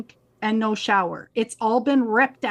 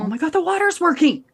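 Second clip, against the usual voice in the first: relieved delight; 7 semitones higher, 3 dB louder, faster than usual. Retold or imitated. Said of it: "And I'm like".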